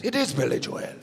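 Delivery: calm "Billy Jo-el", two syllables; matter-of-fact "Jo-el"; Irish pronunciation. Retold or imitated. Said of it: "the Irish comic goes".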